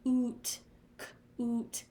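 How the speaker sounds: cute said as "coot" with a plain oo, no y glide; wrong oo version. Shown as a demonstration. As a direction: say coot with a flat oo sound. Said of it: "That's not a word. It's saying U".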